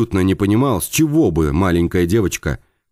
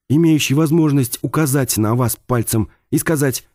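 higher female character voice; bird woman voice; 5 semitones higher than usual. Acted. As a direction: play her higher, tense and pointed.

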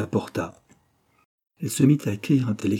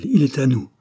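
raised, louder note of triumph; higher, firmer exclamation of victory; exclaiming; 4 semitones higher, 5 dB louder than usual. A narrator's reading. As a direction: cry it out in contained triumph. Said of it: "s'écria-t-elle".

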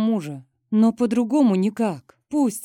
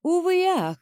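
mocking; 10 semitones higher than usual. A narrator's reading. Rival mocking the wife.

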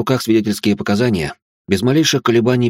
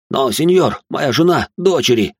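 выше и громче, с испугом; ахни, умоляя пощадить семью; испуганный возглас; 6 semitones higher, slower than usual. Acted. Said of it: "ахнул он". (ювелир в страхе ахает перед приказом, громко и высоко)

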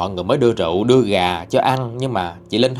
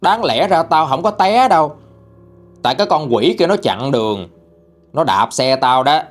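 argumentative retort; 3 semitones higher than usual. Retold or imitated. Dead racer's spirit arguing with bystanders over the crash, indignant protest. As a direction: imitate a spirit arguing back. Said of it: "Cái dòng đó nghe thì cự quá trời".

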